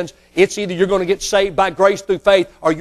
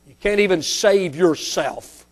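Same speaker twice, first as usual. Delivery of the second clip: mock taunt, raised then dropping away; preacher imitating scoffers; 3 semitones higher than usual. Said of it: "they begin to mock Him".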